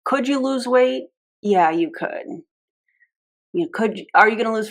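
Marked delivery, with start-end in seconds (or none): 0.1-1.0 higher, teasing presenter voice; light mock presenter; mock sales pitch. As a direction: parody the seller's leading question. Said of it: "I'm presenting this like".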